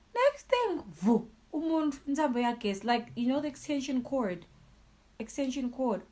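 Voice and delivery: high, loud, rushing agitation; agitated outburst. Real, not acted. Telling viewers about the extension cord, high and loud. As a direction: blurt it out, shaken and high. Recounting being beaten with a cord.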